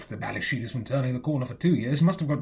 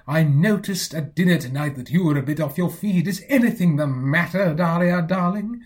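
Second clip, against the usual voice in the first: imitating Uncle Tom; 2 semitones higher, 5 dB louder than usual. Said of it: "he will say".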